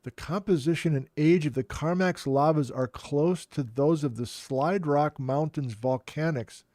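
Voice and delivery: incredulous. Real, not acted.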